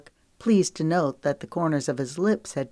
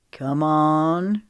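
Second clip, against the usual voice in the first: drawled come on; 5 dB louder than usual. Acted. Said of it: "he drawled".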